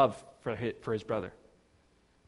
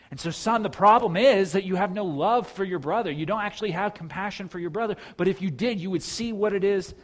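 higher-pitched, insistent appeal to a son; father's earnest reproof; 6 semitones higher, 4 dB louder than usual. Acted. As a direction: press the point home to your child. Father confronts his older son.

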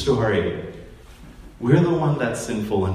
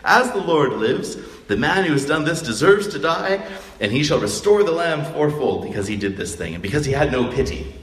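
self-righteous; 4 semitones higher than usual. Retold or imitated. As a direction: proclaim judgement, full of yourself. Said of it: "very self-righteous here".

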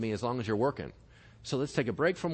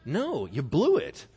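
usual speaking voice

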